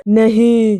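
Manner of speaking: lightly voiced ghost's flat denial. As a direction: answer as an eerie, unbothered ghost. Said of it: "आवाज बोली". (हल्की भूतिया आवाज़)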